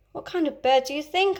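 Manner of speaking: a lightly voiced eager boy; curious lost boy. Slightly asks the lost boys.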